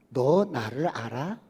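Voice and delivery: slow, lightly voiced divine question; a hint of God asking slowly; slow, gentle voice of God; God's voice. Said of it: "하나님께서 물어보는".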